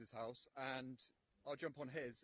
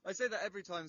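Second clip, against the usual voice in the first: muffled, louder phone audio; phone held in mouth; 7 dB louder, faster than usual. Real, not acted. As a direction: speak with the phone jammed at your mouth. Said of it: "You're getting a bit louder".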